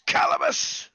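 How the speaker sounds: scream. Acted. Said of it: "and he screams".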